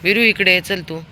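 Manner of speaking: loud call to the dog. Real, not acted. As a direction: call him back across the street. Calling dog back.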